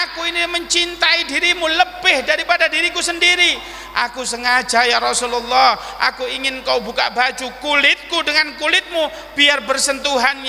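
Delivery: high, impassioned, tearful declaration; acted weeping confession; crying plea. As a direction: pour out love while begging pardon. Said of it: "Mbek nangis ngrogoh".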